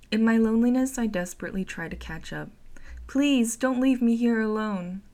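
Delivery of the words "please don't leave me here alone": loud, high desperate cry; screaming plea. Acted. Narrator chasing the head, screaming not to be left alone. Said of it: "I scream while waving my arms".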